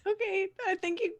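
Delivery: put-on high, halting boy voice; timid young guide. Roger directing the party after a scolding, timid high voice.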